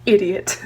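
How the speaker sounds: idiot with a crisp final T; sassy idiot. Shown as a demonstration. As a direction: spit out idiot, landing hard on the T. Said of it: "with the sass of one thousand suns".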